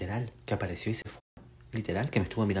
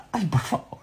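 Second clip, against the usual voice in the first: exasperated; 10 semitones higher, 5 dB louder than usual. Real, not acted. Exasperated fright.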